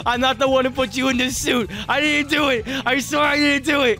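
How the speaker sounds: pleading with the haunted animatronic, mock innocent. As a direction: plead your innocence, hammed up. Pleading with ghost enemy.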